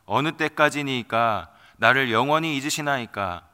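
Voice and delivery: solemn, measured reading of a psalm; scripture reading. Acted. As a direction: read the lament as holy text. Reads Psalm 13 aloud.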